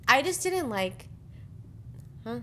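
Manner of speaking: slow, mumbled words; mumbling. Real, not acted. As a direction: mumble it under your breath. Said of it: "I'm saying you're mumbling".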